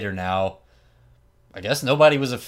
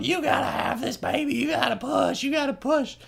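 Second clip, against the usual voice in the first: put-on much higher, squawking old woman; mock birthing coach, much higher; coaching Moolah. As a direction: bark the push orders like a shrill coach. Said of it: "coaching her up".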